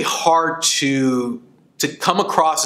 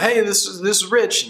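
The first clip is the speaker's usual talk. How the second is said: polished phone greeting; 7 semitones higher than usual. Retold or imitated. Friend answering a booking call.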